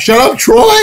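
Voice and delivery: very high, loud mock yell; all-caps shouting. Imitating her all-caps reply to Troy, high yell. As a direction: squawk it as her typed outburst. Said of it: "she put in all caps".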